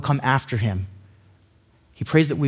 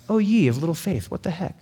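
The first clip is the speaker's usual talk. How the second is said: softer, encouraging reproach; 3 semitones higher, 3 dB quieter than usual. Shown as a demonstration. Preacher rereading Jesus' words as encouragement, gently encouraging. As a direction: gently nudge them on, tailing off quietly.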